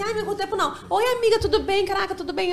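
mock a shallow friend's overdone hello; fake gushing friend. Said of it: "não é aquela assim".

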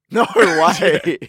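loud, high burst of disbelief; can't-believe-it outburst through a laugh; amused disbelief. Real, not acted. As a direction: laugh out an incredulous cry. Surprised laughing reaction to Bunnings answer.

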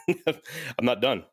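slow, laughing through it. Retold or imitated. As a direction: chuckle the words out slowly. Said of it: "I was like".

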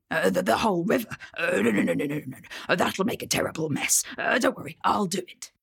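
fast, flustered troll; troll alarmed at fetching the whole river. Acted. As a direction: hurry to stop him in a panic. Troll panics about river.

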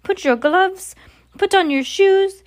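high, loud shrieking commands; frantic shrieked commands to the witches; shrieked orders. Acted. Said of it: "shrieked the Grand High Witch".

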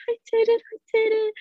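triumphant high cry of disbelief; overjoyed cry. Retold or imitated. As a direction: shout it through happy tears. Retold crying with joy.

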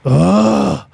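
drawn-out mock "ugh"; little put-on oof of a toddler; imitated toddler grunt. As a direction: imitate a small kid's grunt on tripping. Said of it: "and he just goes".

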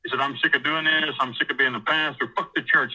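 mildly worked-up retold complaint; pissed off. Kicked preacher complaining to his cellmate, mildly pissed off. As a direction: imitate someone fed up, with understated anger. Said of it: "he's, like, really pissed off".

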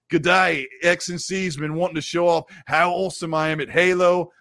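hammed-up attempt at an Australian accent; bad Australian accent. Host reads a viewer's message aloud, in a bad Australian accent. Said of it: "horrible Australian accent".

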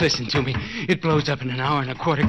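tied man warning them the house will blow up; frantic warning. Acted. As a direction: rush it out to make them listen. Tied man warns of bomb.

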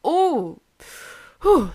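high "ooh" into a loud whew; exasperated exhale. Real, not acted. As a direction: let out a heavy blown breath. Venting after recalling father's anger.

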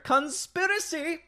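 high, slow, eerie conspiracy; creepy drawn-out hint; conspiracy whisper. Pretend. Reading chat, dramatic conspiracy.

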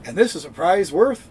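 high, slow hammed-up announcer; mock grand announcer; game show announcer. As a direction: oversell a tiny prize like an old announcer. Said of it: "it's like".

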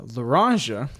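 "Laranja" as luh-RAHN-zhuh, French style; local pronunciation. Shown as a demonstration. Host telling of the guest's meeting, local French pronunciation of "Laranja". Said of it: "explain to you how that was pronounced".

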